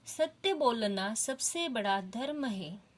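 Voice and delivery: slow, measured "सत्य बोलना सबसे बड़ा धर्म है"; slow quoted reading. Shown as a demonstration. Teacher rereading Ram's words slowly for pupils. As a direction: read the quote slowly and clearly. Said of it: "ऐसे अभी इस वाक्य का मुझे अर्थ पता चलता है".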